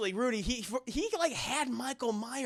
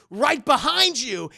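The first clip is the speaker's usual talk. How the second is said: loud, slow jump scare line; spring the line like a horror movie sting; mock scare reveal; 4 semitones higher, 10 dB louder than usual. Michael texting the survivors, loud mock scare.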